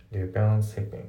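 "リペアアンシッピング" linked as "repair-an-shipping"; no D before shipping in "リペアアンシッピング"; dropped D. Shown as a demonstration. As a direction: run "リペアアンシッピング" together in English. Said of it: "ほぼ発音されてない".

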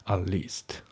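At least with no t on at; dropped t in at. Shown as a demonstration. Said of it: "atのTが抜けますね".

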